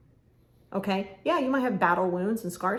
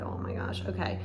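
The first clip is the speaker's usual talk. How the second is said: hushed, stunned little whisper; whispered shock; 3 semitones lower, 5 dB quieter than usual. Retold or imitated. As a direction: breathe it out, caught off guard. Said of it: "you're like".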